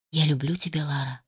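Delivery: breathy loving whisper. Acted. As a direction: whisper it tenderly to her. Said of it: "прошептал Адам".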